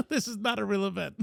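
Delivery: repeating the disclaimer through a laugh. Real, not acted. Speaker to audience, laughing as he repeats it isn't real. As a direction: chuckle it out as a correction.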